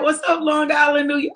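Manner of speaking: big shout-out to the crowd; hyped shout-out. Real, not acted. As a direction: call out the hometown like a roll call. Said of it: "need to say it like that".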